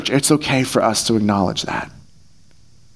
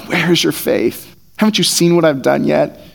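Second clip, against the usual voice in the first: exasperated or tired. Shown as a demonstration. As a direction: sigh it out like a tired teacher. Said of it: "Exasperated or tired".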